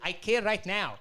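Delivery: high, retold protest; indignant retort. Acted quarrel, answering back.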